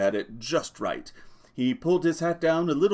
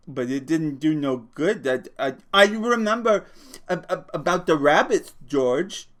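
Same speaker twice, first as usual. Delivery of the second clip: eager; 5 semitones higher, 5 dB louder than usual. Acted. Lenny eager about rabbits.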